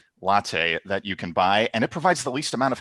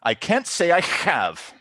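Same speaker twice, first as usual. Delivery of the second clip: higher, slow put-on barista voice; uncooperative barista; 4 semitones higher, slower than usual. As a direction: refuse slowly, in character. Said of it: "Barista folds their arms and says".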